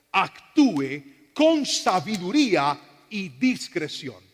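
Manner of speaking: spelled out slowly for the congregation; preacher repeating it slowly for emphasis; slow, deliberate repeat. Shown as a demonstration. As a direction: drag out each word so it sinks in. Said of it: "Voy a volverlo a repetir".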